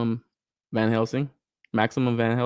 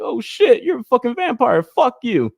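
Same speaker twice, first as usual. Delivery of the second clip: high, loud mock panic; spooked figure yelling in jest; mock freak-out; 12 semitones higher, 5 dB louder than usual. Spooked head sculpt cursing out a vampire, mock freak-out.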